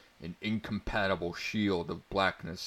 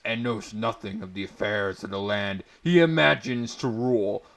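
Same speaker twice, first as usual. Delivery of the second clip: growing louder, scornful defiance; defiant prisoner; 5 dB louder than usual. Acted. Prisoner Grigner scorns the prince, building to outrage.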